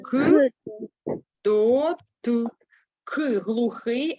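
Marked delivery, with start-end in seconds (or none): 0.0-2.5 "К, до, т" spelt loud and separate; letter by letter spelling. Shown as a demonstration. Teacher to class, loud spelling out. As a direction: spell out "К, до, т" one piece at a time. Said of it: "а пишемо ане".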